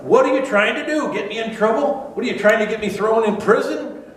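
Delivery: high, startled, suspicious questions; hammed-up alarmed Roman soldier. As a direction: panicky soldier fearing trouble. Soldier reacting to the offer.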